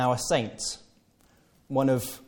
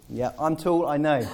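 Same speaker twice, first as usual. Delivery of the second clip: wearily agreeing, higher; resigned; 4 semitones higher than usual. Retold or imitated. Peter answering the flatterer, mock resigned. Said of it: "So I have to".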